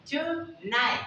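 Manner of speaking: TONIGHT with crisp first T, last T dropped; slow TONIGHT, final T unreleased; first T sounded. Shown as a demonstration. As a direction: say TONIGHT as "too-nigh". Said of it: "you're pronouncing that T".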